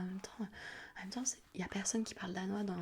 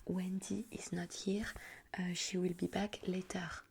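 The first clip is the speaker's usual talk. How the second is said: slow, measured model phrase in English; phone script demo; slower than usual. Shown as a demonstration. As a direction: dictate the English phone line slowly. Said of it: "la phrase type à dire".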